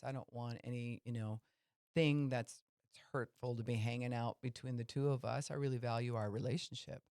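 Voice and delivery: reach out kindly to a friend you value; gentle caring approach. Retold or imitated. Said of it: "That's carefront".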